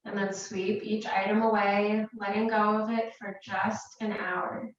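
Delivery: calm, unhurried meditation guidance with long pauses; guided meditation. Real, not acted. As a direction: guide them gently into relaxation, leaving space between phrases. Leads a meditation.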